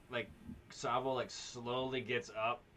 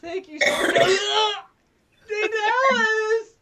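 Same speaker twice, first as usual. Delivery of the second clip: high squeaky grateful voice; 14 dB louder than usual. Acted. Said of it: "He's like".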